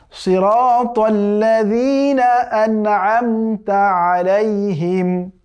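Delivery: drawn-out tajweed chanting; slow Quran recitation. Shown as a demonstration. Teacher reciting the verse for students, slow chant. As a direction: recite each word slowly and carefully. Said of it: "আমার সাথে practice করুন".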